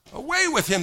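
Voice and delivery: loud, high jeering cry; mock crowd yell. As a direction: shout it like an angry mob. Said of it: "they yelled".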